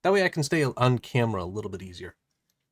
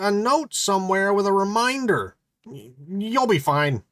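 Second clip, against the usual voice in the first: Klaus voice; 9 semitones higher, 5 dB louder than usual. Acted. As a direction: talk out of the toilet like a cocky wise guy. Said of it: "picked the voice for Klaus as ... wise guy".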